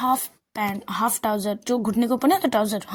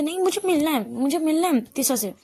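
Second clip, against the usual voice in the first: insistent pleading; 5 semitones higher than usual. Acted. Aana insists on meeting Tisa.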